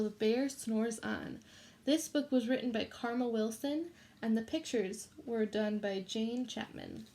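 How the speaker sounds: put-on reading a picture book to children; gentle read-aloud for a class; story reading. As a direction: read it like storytime for little kids.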